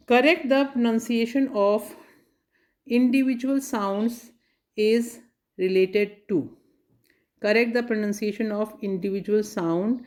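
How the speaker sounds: slow, deliberate reading of the quiz line; slow question reading. Shown as a demonstration. Teacher reading a quiz question to students, slow and deliberate. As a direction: read each word out clearly and slowly.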